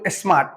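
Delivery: स्मार्ट said in a single go; quick, unbroken स्मार्ट; one-beat word. Shown as a demonstration. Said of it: "एक बार में बोल दिए".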